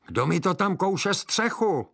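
put-on shrill old witch calling out. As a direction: call out like a suspicious witch. Witch calls from her house.

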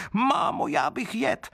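put-on very high little-child voice, slow and demanding; a hungry wooden baby whining for food; greedy child crying out. A narrator's reading. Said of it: "potom zase křičel".

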